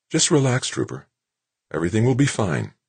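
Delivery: gentle woman, calming a frightened man; soothing. A narrator's reading. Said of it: "she was saying soothingly".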